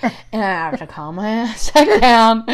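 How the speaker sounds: loud, slow, laughing through the words. Real, not acted. Recounting her retreat to the bedroom, laughing. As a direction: let laughter break up the line.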